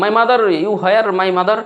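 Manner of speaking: "My mother, you where, my mother?" called high and drawn out; calling out to mother. Shown as a demonstration. Hungry child calling for mother in broken English, high and drawn out. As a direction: call for mom across the house, high and slow. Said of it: "আপনি যে বলেন".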